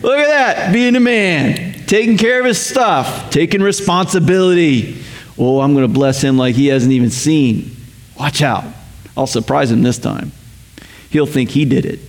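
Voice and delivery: a hint of a proud, delighted dad; preacher voicing God praising his son, lightly proud; proud father. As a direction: cheer him on like a proud father. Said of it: "my Father in heaven is gonna go".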